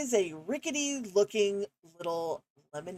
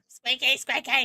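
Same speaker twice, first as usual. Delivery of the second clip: higher squeaky voice; 5 semitones higher than usual. Shown as a demonstration. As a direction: squeak the words high. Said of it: "squeaky voices".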